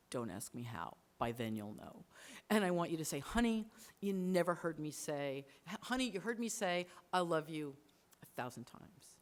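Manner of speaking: low, subdued dying-man confession; understated sorrow, voice dropping at the ends; restrained tearful farewell. Acted. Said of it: "And he's crying".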